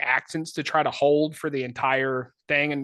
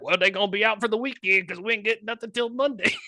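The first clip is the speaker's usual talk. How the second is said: gossiping lady; 6 semitones higher than usual. Retold or imitated.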